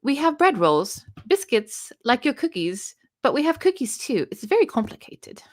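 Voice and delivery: reading in a light, mock British accent; a hint of British accent, read out for fun. Shown as a demonstration. Reading a chat comment to Gareth in a mock British accent. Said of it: "I'm gonna read it in a British accent".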